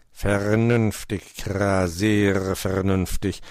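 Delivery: slow, lightly voiced raven praise; raven praising. Meister Schwarzrock lobt den Vorschlag, langsam gesprochen. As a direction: praise it slowly and gravely. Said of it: "lobte Meister Schwarzrock".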